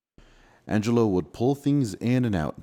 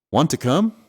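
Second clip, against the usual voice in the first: eager; 7 semitones higher, 8 dB louder than usual. Acted. Eager invitation, excited.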